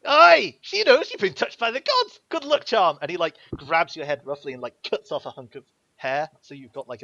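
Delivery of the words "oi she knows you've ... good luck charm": much higher, loud cockney thug; Scarface voice. Acted. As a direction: leer at her like a lucky find. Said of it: "Scarface goes".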